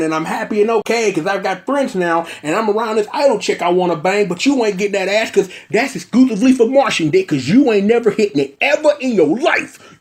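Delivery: hammed-up taunt at the idol chick; cocky Me Tan the Stan. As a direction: strut it like a smug fanboy.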